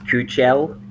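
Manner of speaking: "Kuchel" said KYOO-chel; pronunciation guess. Shown as a demonstration. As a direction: say "Kuchel" slowly, with a ch in the middle. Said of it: "I think it's pronounced".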